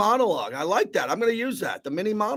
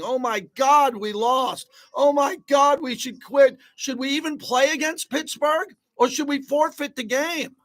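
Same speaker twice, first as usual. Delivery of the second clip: mocking whiny fans; 5 semitones higher than usual. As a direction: ham up the fans' whining to ridicule it. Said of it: "Everybody just whining all the time".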